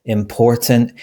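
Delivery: "important" with stress on POR; im-POR-tant, outer syllables left weak; stress on middle syllable. Shown as a demonstration. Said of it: "we stress the middle syllable".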